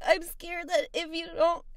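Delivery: high tearful whine, dragging out the end; fake crying. Caller guilt-trips a helper over promised drinks, crying. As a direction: plead through put-on sobs. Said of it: "Just please stop crying".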